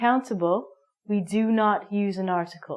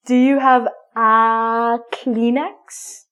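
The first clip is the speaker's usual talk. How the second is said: stuffy-nose request; 6 dB louder, much slower than usual. Acted. Asking someone for a tissue.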